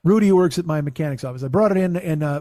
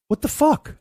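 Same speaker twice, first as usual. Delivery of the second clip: high, incredulous what the fuck; stunned disbelief; 10 semitones higher, 3 dB louder, slower than usual. Real, not acted. Stunned by the oil leak news, high disbelief. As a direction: pitch it way up in disbelief.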